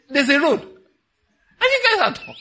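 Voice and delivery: high, loud punchline with laughter; laughing punchline. Retold or imitated. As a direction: shout it out laughing.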